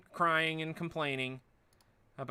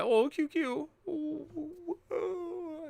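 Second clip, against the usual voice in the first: put-on much higher, taunting whiny kid; mock kid whining; much slower than usual. Streamer imitates kids taunting a crybaby, high whiny. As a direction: tease like a kid mocking a crybaby. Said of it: "tell somebody when they're crying".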